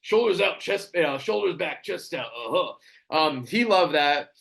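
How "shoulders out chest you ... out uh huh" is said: hams up a wrestler's in-character promo; Macho Man impression. Fan in character at a meet-and-greet, doing a hammed-up Macho Man promo. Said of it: "I'm in character".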